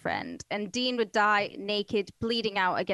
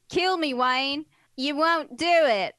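a hint of a taunting killer, louder at the end; imagined killer's taunt; 5 semitones higher, 5 dB louder, slower than usual. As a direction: dare him, rising and louder. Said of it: "That's how I imagine he sounds".

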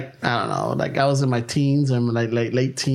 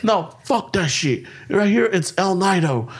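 slow, insistent dismissal; digging in his heels, slowly; stubborn; 5 semitones higher, slower than usual. Retold or imitated. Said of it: "He's all like".

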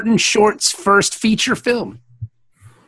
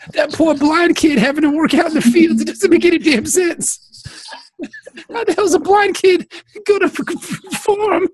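higher, hammed-up tearful rant; mock crying; 4 semitones higher than usual. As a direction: wail in protest, stammering at the end. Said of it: "He's a crying ass dude".

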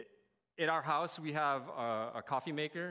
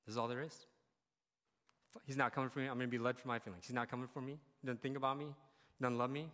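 softer, resigned self-talk; hopeless inner voice; 4 semitones lower, 5 dB quieter, faster than usual. Retold or imitated. Believer who feels abandoned by God, quietly resigned. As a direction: say it like you've given up on being loved. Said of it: "voicing the hopeless believer".

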